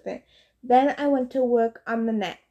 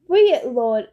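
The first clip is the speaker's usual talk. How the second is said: a louder, begging plea; pleading sea horses; 5 dB louder than usual. Acted. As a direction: beg the hero to free it. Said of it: "they pleaded".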